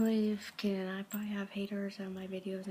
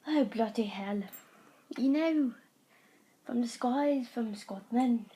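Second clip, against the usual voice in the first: loud put-on British or Scottish accent; 5 dB louder than usual. Showing off two accents to viewers, put-on accent. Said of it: "Those are my two accents".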